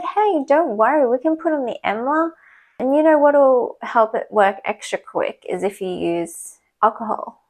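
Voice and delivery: head nurse soothing the crying patient, in a bright high voice; imitating a cheery head nurse. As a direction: play the sing-song boss comforting a patient. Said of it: "And she said".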